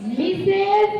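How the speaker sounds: very slow, stretched out; slow model sentence. Shown as a demonstration. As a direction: dictate it word by word. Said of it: "next क्या हो जाएगा?". (बहुत धीरे-धीरे बोलना)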